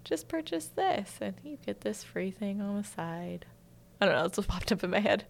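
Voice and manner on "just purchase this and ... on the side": slow, soft pretend sales pitch; hushed mock commercial read, unhurried. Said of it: "I feel like I'm an ad right now".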